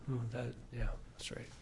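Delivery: very soft, low murmured agreement; quiet concession. Acted. Imagined listener conceding to God's truth, quiet reluctant agreement. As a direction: murmur it as if admitting it to yourself.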